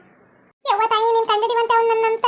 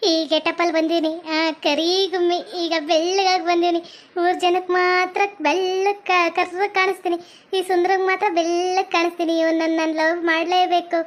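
scheming ghoul; 4 semitones lower than usual. Acted. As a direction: stretch the key words, keeping it low. Disguised black ghoul gloats to herself.

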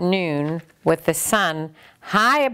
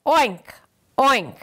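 pig oink; 6 semitones higher than usual. Acted. The pig asks the librarian, but only oinks. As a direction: squeal it like a pig. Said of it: "all the librarian heard was".

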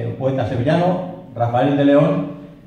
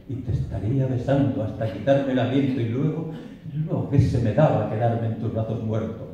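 poem recitation. Acted. The lover dreams of reaching the beloved, ardent recitation turning grave.

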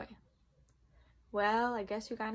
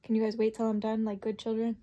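loud, firm telling off; loud scolding; 7 dB louder than usual. Real, not acted. Teacher scolds dogs.

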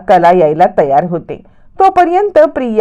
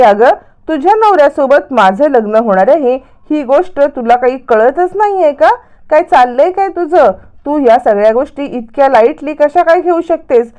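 higher-pitched, mildly indignant questioning; indignant challenge; 4 semitones higher than usual. Acted. Priya demands Sayali take the wedding seriously, indignant challenge. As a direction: press the rival with acted indignation.

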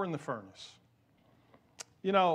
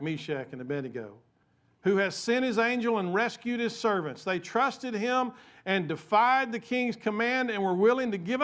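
lightly voiced proclamation; king's praise; 3 semitones higher than usual. Nebuchadnezzar praising God, lightly voiced proclamation. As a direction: proclaim it like a king.

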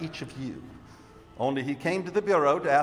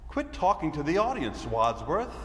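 put-on Mr. Green in a normal American accent; firm stage delivery in an American accent. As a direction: play an accusing Mr. Green, plain American. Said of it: "normal American act".

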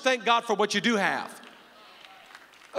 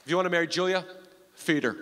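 Bob's voice; 4 semitones lower, faster than usual. Retold or imitated. Father-in-law answering the marriage proposal, low and deadpan. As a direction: drop way down and ask it flat. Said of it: "He goes".

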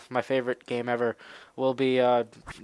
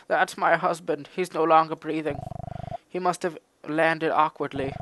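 lightly voiced mother goat; 4 semitones higher than usual. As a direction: read the grieving goat gently. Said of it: "give him a really animalist voice".

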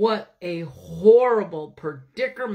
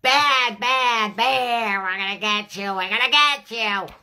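lightly voiced angry bees. Bees scold the bear who stole from their hive, mildly mock angry. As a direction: scold like cross little bees.

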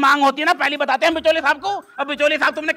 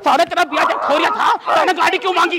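repeated angry demands in bursts; furious scolding. Acted. Father berates son over the car demand, angry scolding. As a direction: lay into him, firing the same question.

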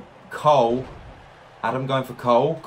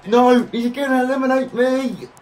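panicked; 12 semitones higher, 5 dB louder than usual. Real, not acted. About to be eliminated.

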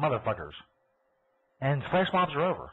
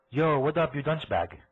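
attempted Slovakian accent; 3 semitones higher, slower than usual. Host trying out a foreign slam, mock Slovakian accent. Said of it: "Was that a Slovakian accent?".

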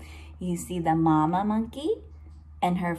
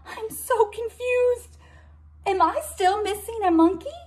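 a mom lost in her count; confused Mama; 12 semitones higher than usual. Acted. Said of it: "says Mama".

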